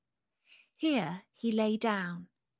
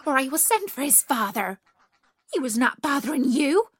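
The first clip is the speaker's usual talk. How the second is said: high, loud protective outburst; fierce; 5 semitones higher, 8 dB louder than usual. A narrator's reading. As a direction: fiercely order them off as an angry mother. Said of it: "she said fiercely".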